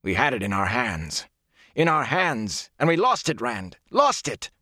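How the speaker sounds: building to high, anguished exclamations; disbelieving. A narrator's reading. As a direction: cry it out as if you can't believe it. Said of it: "He sounded as if he could not believe".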